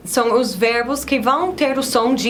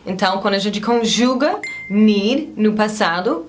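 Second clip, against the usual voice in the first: ordinary delivery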